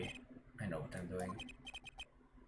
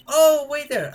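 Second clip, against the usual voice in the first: much higher, louder mock call; mock shout; 12 semitones higher, 9 dB louder, slower than usual. Guard calling to the waiting lawyers, high mock shout. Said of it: "Like shouting".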